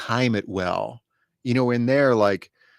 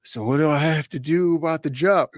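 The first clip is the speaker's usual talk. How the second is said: put-on drunk voice; 4 semitones higher than usual. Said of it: "slurring the words and do the drunk hiccups".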